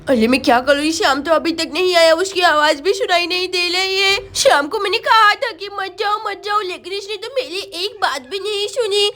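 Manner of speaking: lightly voiced lisping child; worried little girl. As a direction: fret aloud with a touch of fear. Sonam worries about Shyam. (घबराई तोतली बच्ची)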